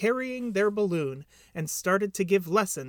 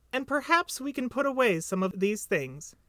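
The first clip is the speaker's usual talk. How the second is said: Piglet; 6 semitones higher than usual. Acted. Piglet voiced beside narrator.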